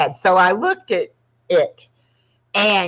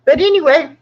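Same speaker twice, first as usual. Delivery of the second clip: excited; 10 semitones higher, 5 dB louder, faster than usual. Real, not acted. Excited subscriber news.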